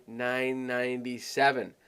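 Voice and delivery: "nine ninety-seven" said lightly as a small figure; small-sounding price. Shown as a demonstration. Coach showing how the price sounds way smaller, understated. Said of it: "it sounds way smaller".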